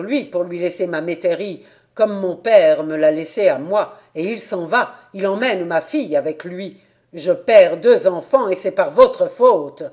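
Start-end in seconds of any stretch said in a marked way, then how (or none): 1.9-9.8 building from steady to a loud cry of grievance; a father's hurt flaring into loud reproach; getting louder with each complaint; rising anguished anger. Acted. Father pleads against the councillor.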